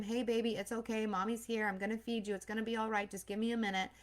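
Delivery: put-on mother soothing her hungry baby, soft and calm; comforting a baby. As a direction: hush a fussing newborn gently. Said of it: "she's comforting him".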